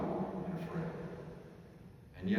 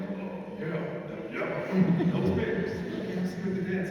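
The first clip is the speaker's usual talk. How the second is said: put-on higher-pitched awkward adolescent boy, laughing; teen voice still changing; 8 semitones higher than usual. Freshman answers the girl he likes, high changing voice. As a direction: play your younger self with a changing voice. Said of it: "my voice is still changing".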